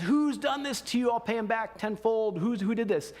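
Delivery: retelling an angry king, pitch lifted but not shouted; retold fury. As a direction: act out the king's outrage, lightly. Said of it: "And Darius is furious".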